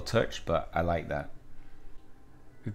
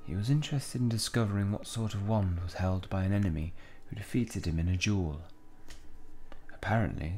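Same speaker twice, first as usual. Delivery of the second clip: measured, quieter game-character reading; shopkeeper; 6 dB quieter than usual. Acted. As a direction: report it evenly as a reserved shopkeeper. Reads shopkeeper's game dialogue.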